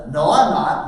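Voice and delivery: put-on loud, defiant kid talking back; defiant refusal. Son refusing his parent's order to prospect, loudly defiant. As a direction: push back hard like a stubborn son.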